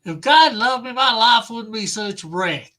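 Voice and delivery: a voice the reader feels doesn't fit; reader's voice for Jack Eagles, which he admits is wrong; wrong character voice. Acted. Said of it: "Totally the wrong voice for".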